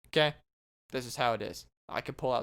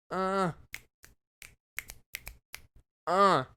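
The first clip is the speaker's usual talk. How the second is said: short raised mummy drones; mummy groan imitation; 4 semitones higher than usual. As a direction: toneless mechanical groan as a sign-off gag. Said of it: "he makes a, uh, sound".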